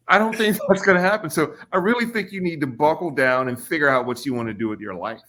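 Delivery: lightly hammed-up skeptical counselor; imitating counselor. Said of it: "She said".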